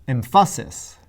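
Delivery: emphasis said em-PHA-sis, middle punched; stress on middle syllable. Shown as a demonstration. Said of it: "Now try".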